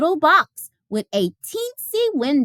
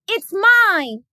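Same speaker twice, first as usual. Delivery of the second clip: put-on louder, higher childish yell; 9 semitones higher, 5 dB louder than usual. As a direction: shout your claim at the teacher. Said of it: "she yelled".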